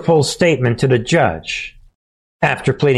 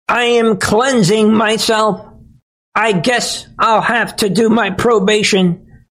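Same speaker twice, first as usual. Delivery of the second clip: much higher, whiny fake-sobbing voice; mock tearful Jenna Ellis; 8 semitones higher than usual. Host mocking Ellis's tearful plea apology, whiny high mock sob. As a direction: ham up a weepy apology, pitched way up. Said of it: "her voice breaking at times".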